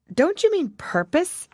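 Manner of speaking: put-on a girl correcting the word; Alice. A narrator's reading.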